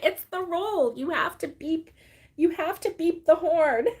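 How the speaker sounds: high, emphatic retort; mock-earnest insisting; playful insistence. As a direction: imitate someone standing firm on a silly rule. Retells daughter insisting on the rule.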